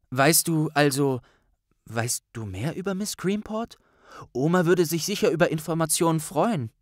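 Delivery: a fast, sweaty, chatty Neville. Acted. Neville-Figur spricht. (höhere, schnelle Neville-Stimme)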